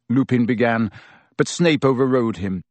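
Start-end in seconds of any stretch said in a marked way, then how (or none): none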